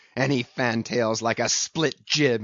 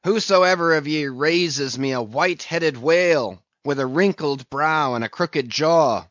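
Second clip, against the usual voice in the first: loud, raised captain's proclamation; exclaiming loudly, pitched up a little; high raised voice; 4 semitones higher, 6 dB louder than usual. A narrator's reading. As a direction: call it out to the whole crew, ringing and emphatic. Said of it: "with a high raised voice exclaiming".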